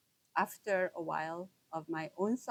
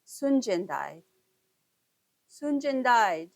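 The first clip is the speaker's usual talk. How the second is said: voices wailing; 3 semitones higher, 8 dB louder than usual. Retold or imitated. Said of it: "I heard voices".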